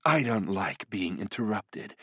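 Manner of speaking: slow, teasing demon seductress; flirtatious demoness. Acted. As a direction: purr each threat slowly and playfully. Voices the succubus.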